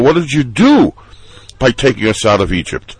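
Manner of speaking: a touch of panicky reproach, fast at the end; half-acted accusing whine; mild complaining. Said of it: "what are you saying in panic".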